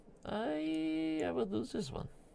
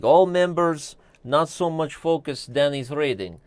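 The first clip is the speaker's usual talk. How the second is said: mock broken-English accent; 3 dB louder than usual. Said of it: "and the accent did not help".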